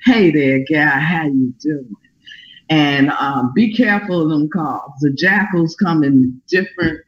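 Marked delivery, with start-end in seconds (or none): 0.1-1.9 sickly sweet. Retold or imitated. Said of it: "with that syrupy, sweet voice".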